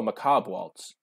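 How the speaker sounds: Macabre as muh-KAHB, running slowly into Waltz; slow Macabre Waltz, Macabre ending on the b; newly learned pronunciation. Shown as a demonstration. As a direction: silent "re" at the end of Macabre. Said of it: "that's why people say it that way".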